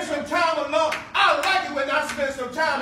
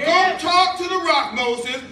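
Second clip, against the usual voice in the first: louder emphatic command. Shown as a demonstration. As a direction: Go talk to the rock said louder, with a falling push on go. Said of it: "Listen carefully".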